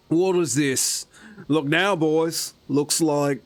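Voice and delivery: put-on pirate talk in an unplaceable accent. Pirate sizing up the party, put-on accent. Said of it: "where that accent came from".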